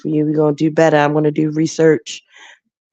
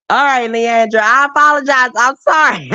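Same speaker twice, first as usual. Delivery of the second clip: mock tearful apology; 7 semitones higher than usual. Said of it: "I'm a little sensitive".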